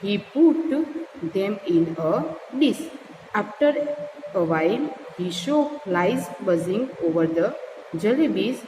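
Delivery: slow, measured story reading; story read-aloud. A narrator's reading. Teacher reads a jalebi story to learners, slow read-aloud. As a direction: read it slowly, word group by word group.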